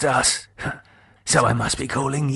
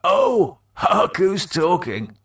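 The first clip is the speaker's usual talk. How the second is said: a touch of angry sniping, higher; bickering dead mates; 7 semitones higher than usual. Acted. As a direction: snipe back and forth. Mark and Keith quarrel.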